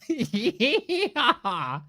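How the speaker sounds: laughing Texan yeehaw; cowboy yeehaw. Retold or imitated. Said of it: "Texan accent".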